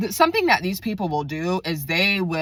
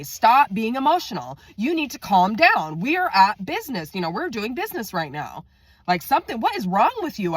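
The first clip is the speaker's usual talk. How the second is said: exasperated, raised pitch; retold telling-off; 5 semitones higher than usual. Telling an emotional coworker to calm down, high exasperation. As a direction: act out scolding a colleague, voice pitched up.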